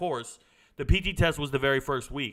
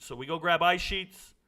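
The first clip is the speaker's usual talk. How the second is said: plain reading voice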